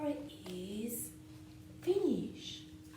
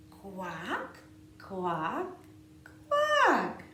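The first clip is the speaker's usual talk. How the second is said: duck quacking; 9 dB louder, much slower than usual. Pretend. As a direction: quack like a playful duckling. Duck refrain.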